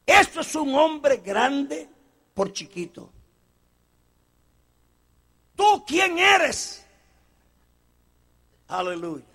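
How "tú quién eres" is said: challenging question. Acted. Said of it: "preacher repeats question".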